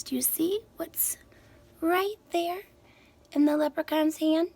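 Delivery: breathy unvoiced question; whisper. Real, not acted. Teacher asking boys and girls about the picture, whispered.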